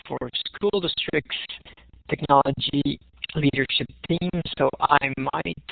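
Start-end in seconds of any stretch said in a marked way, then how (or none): 4.6-5.6 audio breaking up on a bad line; words cut into stutters by lag; choppy connection. Real, not acted. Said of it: "you're really stuttering for me".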